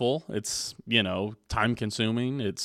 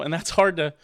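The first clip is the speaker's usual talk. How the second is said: normal talking voice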